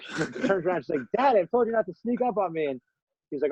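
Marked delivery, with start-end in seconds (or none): 1.2-2.7 high-pitched mock scolding of a dad; annoyed child, pitched way up; exasperated little girl. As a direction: imitate a kid telling off her father. Girl scolds her father after screaming.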